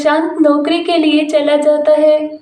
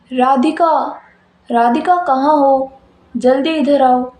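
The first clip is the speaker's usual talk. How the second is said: lowered male voice calling out; husband calling; 3 semitones lower than usual. Acted. Husband calls Radhika from another room, lowered male voice. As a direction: call her name low and urgent.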